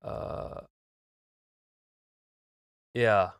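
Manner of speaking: robotic voice. Real, not acted. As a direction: voice through a robotic plugin. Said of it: "my voice is robotic".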